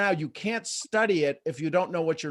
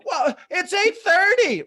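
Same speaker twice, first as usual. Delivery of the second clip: much higher, louder, slow mock whine about the time; whiny complaint; 8 dB louder, slower than usual. Coach mocking viewers who join the call late, slow whiny excuse. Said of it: "when you go".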